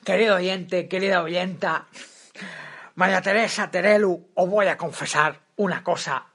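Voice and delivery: put-on mannered old pundit voice; a hint of a pompous commentator; Jaime Peñafiel impression. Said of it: "qué imitación más vintage".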